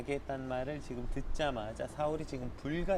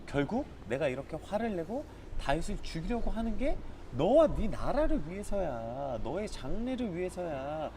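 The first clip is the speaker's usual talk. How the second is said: insistent father; 5 semitones higher than usual. Retold or imitated. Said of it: "이렇게 말하고 있는 것입니다".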